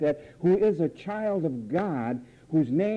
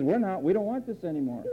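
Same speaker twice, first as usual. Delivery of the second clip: fast, laughing whine; lightly voiced sulking mind; whiny other mind; 3 dB quieter, faster than usual. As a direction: brush it off like a sulky child. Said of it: "the other mind says".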